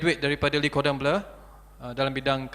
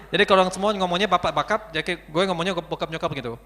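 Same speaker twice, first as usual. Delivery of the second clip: Jakarta slang. Shown as a demonstration. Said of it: "Jadi ngomongnya kayak gini".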